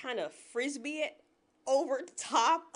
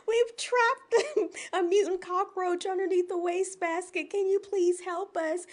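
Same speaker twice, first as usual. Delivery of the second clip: higher, laughing plea for help; hammed-up damsel begging, slowing at the end; mock frantic plea; 5 semitones higher than usual. Women to a passing coworker, mock frantic. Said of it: "we're frantic".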